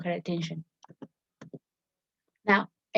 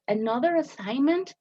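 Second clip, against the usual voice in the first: higher, put-upon groan of a question; annoyed student; 6 semitones higher than usual. Retold or imitated. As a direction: sound fed up with more homework. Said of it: "she's annoyed".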